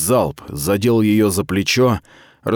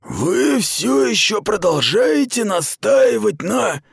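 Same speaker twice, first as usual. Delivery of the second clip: high, slow disbelieving voice; incredulous commander; 12 semitones higher, slower than usual. Acted. Aradai doubts Mita's claim, incredulous. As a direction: let disbelief stretch the words.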